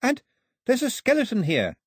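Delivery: high, eager call. A narrator's reading. Daphne reporting her find to Mao, calling out. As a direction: call out a discovery from afar. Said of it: "Daphne called out".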